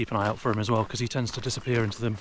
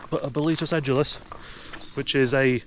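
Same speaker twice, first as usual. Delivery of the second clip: hint of an Italian accent on porcini; light mock Italian accent, raised pitch; 3 semitones higher than usual. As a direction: slip into a hammed-up Italian lilt. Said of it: "I don't know why I did that accent".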